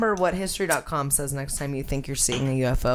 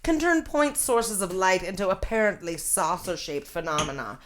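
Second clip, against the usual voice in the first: lightly voiced old newsreel scientist; 1950s scientist voice. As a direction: read it like a fifties science film narrator. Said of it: "nineteen fifties scientist voice".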